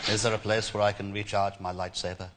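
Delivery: lightly voiced weary Jedi; a hint of a tired old Jedi; Obi-Wan Kenobi impression. Prank caller as Obi-Wan booking a hotel room. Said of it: "Obi-Wan Kenobi".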